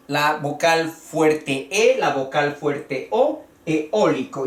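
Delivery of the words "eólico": eólico stressed third from last, on Ó. Shown as a demonstration. Teacher names it esdrújula, eólico stressed on Ó. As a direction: press on the O in eólico. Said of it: "es también una esdrújula".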